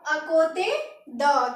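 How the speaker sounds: अकोते द said very slowly, akote da; French à côté de. Shown as a demonstration. Teacher models French for next to, very slowly. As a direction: stretch अकोते द out slowly for students. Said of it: "next to के लिए हम बोलते हैं".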